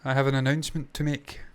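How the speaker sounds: halting mock announcement. Host teasing an announcement to co-host, halting and stilted. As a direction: stall through it, pausing oddly between phrases. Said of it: "Why am I speaking like this".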